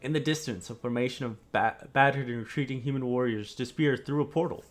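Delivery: grave, steady scene-setting; story narration. Acted. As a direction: paint the battlefield for the players. GM describes the vision scene.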